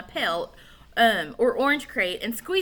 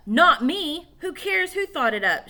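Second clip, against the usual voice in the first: higher, louder shout; 7 semitones higher, 6 dB louder than usual. A narrator's reading. Tom shouts during the barn quarrel. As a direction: yell back in the argument. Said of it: "shouted Tom".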